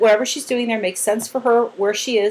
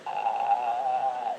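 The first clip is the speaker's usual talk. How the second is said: low, slow imitated grackle call; child imitating a grackle; bird sound; 11 semitones lower, 10 dB quieter than usual. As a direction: mimic a bird's rasp. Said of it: "she used to make bird sounds".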